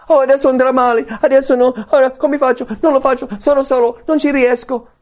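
high, loud fretting; acted panic. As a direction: rattle off worries in a mock panic. Acts out anxious doubting thoughts.

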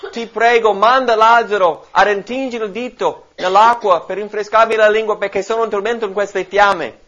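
loud, high pleading cry from torment; preacher voicing the rich man's anguished plea; rich man exclaiming. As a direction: beg Father Abraham from the flames, loud and high. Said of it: "esclamò".

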